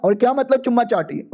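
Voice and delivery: ordinary delivery, nothing marked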